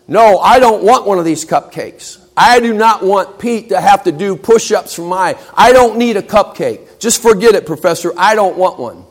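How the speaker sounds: a student who has had enough; upset refusal. Acted. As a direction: push back hard against the professor. Cheerleader refuses, upset at the professor.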